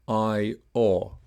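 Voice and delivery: "I, O" as separate clear vowels; "I, O" each fully sounded; two clear vowels. Shown as a demonstration. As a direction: model "I, O" one vowel at a time. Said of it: "are both clear".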